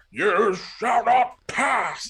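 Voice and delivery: high, loud, very slow wizard boom; Gandalf. Retold or imitated. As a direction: bellow it like a wizard on a bridge. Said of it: "You can do Gandalf though".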